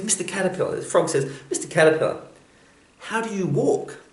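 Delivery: a small frog gasping at all those legs; amazed frog. Acted. Frog marvelling at the caterpillar's hundred legs, very high and amazed.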